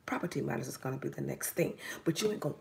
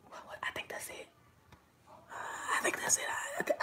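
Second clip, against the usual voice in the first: a hushed imitation of someone who is unsure; mock confused thoughts. Voicing the client's confusion.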